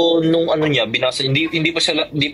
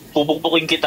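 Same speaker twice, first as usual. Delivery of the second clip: laughing; 2 semitones higher than usual. Real, not acted. Teasing back at friend's compliment.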